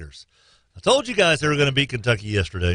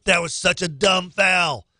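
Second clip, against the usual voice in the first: retold scolding; 4 semitones higher, slower than usual. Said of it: "I said".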